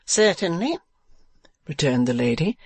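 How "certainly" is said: high wife's voice; Madame Mantalini. Acted. Wife chiding her husband, high character voice.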